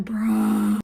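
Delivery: long drawn-out exclamation; mock exasperated bruh. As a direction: stretch the word out for comic effect. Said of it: "I'm like".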